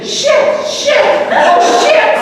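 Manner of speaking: breathy, high, rising panic with a laugh; panicked whisper. Retold or imitated. Father to his daughter as the teens approach, whispered panic. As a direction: hiss the curses to your daughter in mounting alarm.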